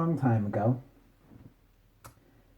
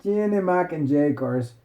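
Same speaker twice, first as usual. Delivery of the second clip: mock Italian accent. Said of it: "she was like".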